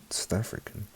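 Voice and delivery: "South African" said lightly in a South African accent. Shown as a demonstration. Demonstrating her South African side, light South African accent. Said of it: "like, well".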